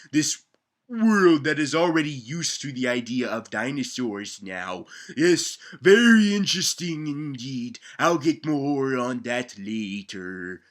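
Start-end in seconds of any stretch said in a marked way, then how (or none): 5.2-10.6 lightly voiced pompous narrator; a hint of a stuffy documentary host; mock-serious documentary commentary; mock scholarly. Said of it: "Why are you talking like that?".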